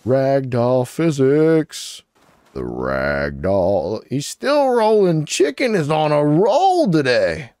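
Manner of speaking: slow, stretched amused commentary; amused drawl. Real, not acted. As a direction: savor the silly physics. Laughing at rolling chicken.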